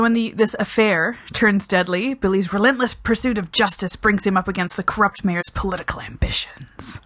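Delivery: deliberate read-out, dropping to a whisper on the last word; dramatic synopsis reading. Shown as a demonstration. Reviewer reading out the film's synopsis, dramatic blurb delivery. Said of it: "I love reading out synopsises".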